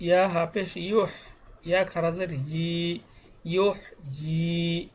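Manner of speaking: measured letter-by-letter recitation, long vowels held; teacher's even syllable chant; Qaida spelling recitation. Shown as a demonstration. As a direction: spell each syllable, then join them slowly. Spells out Arabic reading primer.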